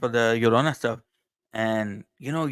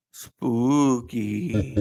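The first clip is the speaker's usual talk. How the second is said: spooky voice. Pretend. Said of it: "where's the spooky voice".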